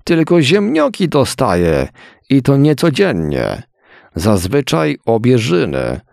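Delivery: wysoko, żałośnie, biedny chłop; poskarż się z głodu; smutny głos chłopa. A narrator's reading. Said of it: "dodał smutno drugi". (smutny, wysoki głos robotnika)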